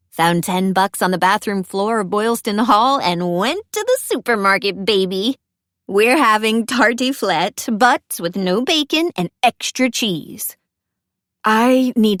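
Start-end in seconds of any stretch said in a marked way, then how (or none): 0.1-10.6 bubbly roommate reading her news; lightly voiced cheerful roommate. Roommate announcing dinner to Elsie, lightly cheerful. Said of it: "she takes out one AirPod and grins".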